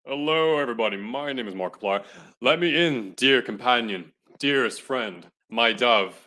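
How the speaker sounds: smooth, suave lover voice. Acted. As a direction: croon it smoothly. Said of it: "Smooth, smooth the voice".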